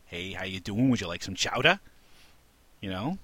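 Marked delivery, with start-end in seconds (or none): 0.1-1.8 badly faked Maine accent, friendly local. Friendly Mainer offering chowder, horrible put-on Maine accent. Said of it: "That's a horrible accent".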